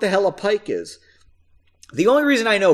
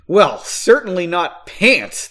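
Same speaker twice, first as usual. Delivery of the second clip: scoffing; 5 dB louder, slower than usual. Acted. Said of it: "the man scoffed".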